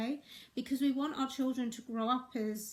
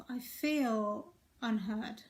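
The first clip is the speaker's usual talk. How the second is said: slow vulnerable; slower than usual. Shown as a demonstration. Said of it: "I could have said to myself".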